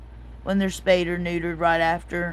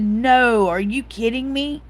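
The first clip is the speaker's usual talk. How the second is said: higher, louder incredulous reply; retold disbelief; 3 semitones higher, 4 dB louder than usual. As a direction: act out refusing to believe it. Retelling her disbelieving reply.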